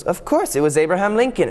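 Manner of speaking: lightly voiced high-pitched schoolgirl answer; eager pupil. Pupil answering the teacher's question, eagerly confident. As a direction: pipe up high, sure of the answer.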